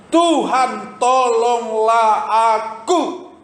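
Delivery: very high, slow, breaking plea; pleading. Acted. Kneeling woman begs the Lord for help, slow and high. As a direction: beg for help, fading to a breath. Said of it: "sambil berkata".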